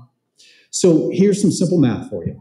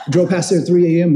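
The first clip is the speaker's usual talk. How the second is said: laughing; 4 semitones higher, faster than usual. Real, not acted.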